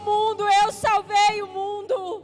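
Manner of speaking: rising, loud preaching over music; full-force Pentecostal preaching; impassioned altar call. Acted. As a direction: call them forward with mounting fervour.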